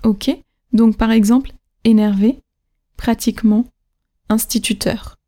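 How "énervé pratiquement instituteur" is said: "énervé", "pratiquement", "instituteur", each accented on the final syllable; énerVÉ, pratiqueMENT, instituTEUR, spaced apart; level syllables, then lean on the endings of "énervé", "pratiquement", "instituteur"; last-syllable stress. Shown as a demonstration. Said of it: "c'est toujours la dernière".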